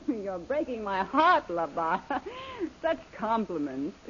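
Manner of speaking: laughing, slow and teasing; amused vamp teasing her henchman; mocking laugh. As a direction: laugh off his flattery. Lily mocks compliments, laughs.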